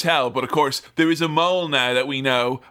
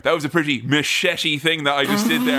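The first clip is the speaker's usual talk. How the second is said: mock smooth Bond. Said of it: "Where he'd be like".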